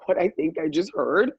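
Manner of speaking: retold incredulous question; incredulous challenge. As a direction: act out stunned disbelief, drawing out the opening words. Retold stunned challenge to the woman.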